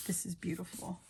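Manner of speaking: soft, hushed appreciation; quiet admiration. Real, not acted. Crafter admiring a paper design, quiet admiration. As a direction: admire it softly, almost to yourself.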